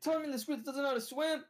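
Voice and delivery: high, disbelieving exclaim; can't believe it, voice jumping up; disbelieving rant about the weasel; incredulous. Real, not acted. Incredulous retelling, pitch way up.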